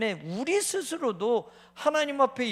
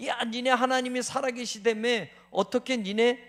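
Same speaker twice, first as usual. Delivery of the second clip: mocking jeer; 4 semitones higher, 4 dB louder than usual. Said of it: "이런 조롱도".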